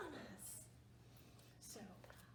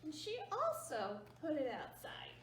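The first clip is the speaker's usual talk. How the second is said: storyteller whisper. Real, not acted. Whispered aside.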